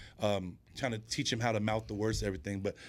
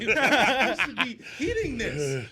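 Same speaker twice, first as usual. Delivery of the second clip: laughing through words; 12 semitones higher, 7 dB louder, slower than usual. Retold or imitated. Retold joke about gout, laughing.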